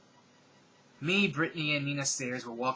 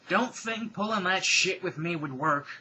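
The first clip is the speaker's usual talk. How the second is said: slow threat; 6 semitones higher, 6 dB louder, slower than usual. Acted. Villain threatening at gunpoint.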